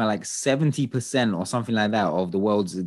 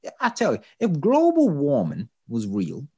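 lightly put-on Texan accent, higher and slow; attempted Texan accent; 4 semitones higher, slower than usual. Host mocks congressman with a snowball, attempted Texan accent. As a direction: have a go at a slow Texan drawl. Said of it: "That was my Texan accent".

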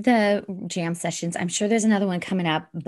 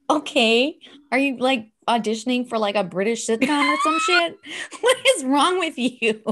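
mock family teasing; 4 semitones higher than usual. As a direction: tease her like the family did. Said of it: "And they're like".

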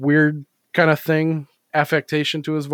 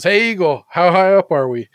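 higher, louder squeaky frog calling up; 5 semitones higher, 7 dB louder than usual. Retold or imitated. Frog in the joke calling to the eagle, higher and louder. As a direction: pipe up like a tiny frog inside a bird. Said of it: "and says".

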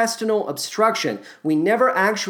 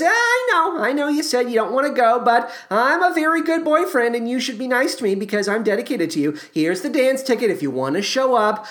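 put-on higher, quick pleading boyfriend; lightly voiced eager boyfriend; 5 semitones higher than usual. Boyfriend pushes dance ticket on girlfriend, eager and fast.

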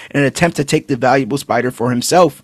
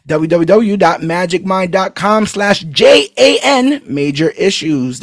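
spelled out slowly, clearly; slow ad read. Shown as a demonstration. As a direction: read the web address slowly. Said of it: "repeats URL slowly".

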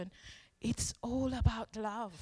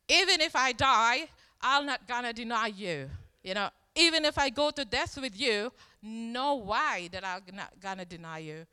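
loud retold pledge, easing at the end; emphatic vow; 7 dB louder than usual. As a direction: act out an insistent promise, starting loud. Peter's vow, acted out.

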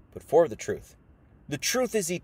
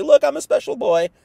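high, loud mocking childish voice; mocking special boy; 9 semitones higher, 8 dB louder than usual. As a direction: sneer it like a spoiled kid craving praise. Mocking attention seeker.

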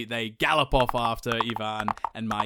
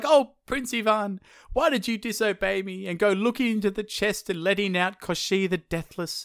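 exclaiming wife; 6 semitones higher than usual. Retold or imitated. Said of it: "she exclaims".

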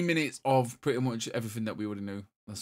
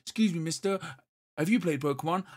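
put-on kid; 4 semitones higher than usual. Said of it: "this kid comes and goes".

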